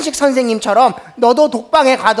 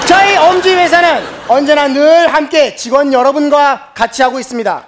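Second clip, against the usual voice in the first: ad read. Acted. Company ad parody.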